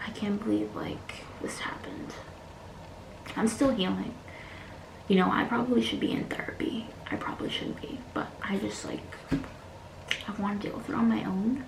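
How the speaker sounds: soft, whispered, close to crying; tearful whisper. Real, not acted. Vlogger admitting to viewers she is still healing, tearful whisper. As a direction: barely get the words out, hurting. Breaking down over what happened.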